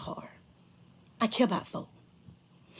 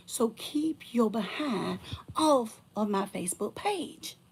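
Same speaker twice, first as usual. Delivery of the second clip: tearful; 4 dB quieter, slower than usual. Real, not acted. Tearful final warning.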